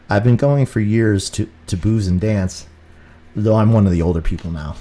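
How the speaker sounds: steady, measured reading of his own book. Acted. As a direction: read the chapter aloud, evenly. Reads his book aloud.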